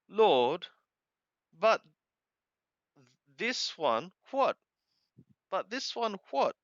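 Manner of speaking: rising, puzzled asking; puzzled question. Acted. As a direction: press Jesus, baffled. Peter's puzzled question, voiced.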